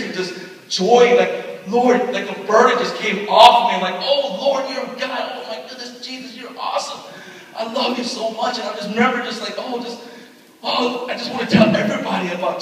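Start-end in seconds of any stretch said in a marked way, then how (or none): 4.0-8.6 higher, elated praise; joyful praise. Retold or imitated. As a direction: gush with relief and joy. Joyful outpouring after conversion.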